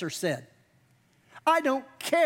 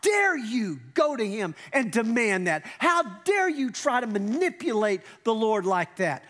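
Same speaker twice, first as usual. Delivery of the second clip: mock indignant shout at the brothers. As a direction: scold the two brothers in outrage. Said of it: "they were indignant".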